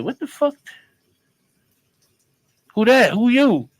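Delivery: panicked yell at the door; alarmed shout. Retold or imitated. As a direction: bark it at the stranger outside. Alarmed demand at stranger at door.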